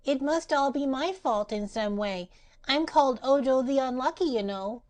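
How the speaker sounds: put-on high, young grieving boy; near tears. A narrator's reading. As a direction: say it close to crying. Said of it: "almost ready to cry through grief".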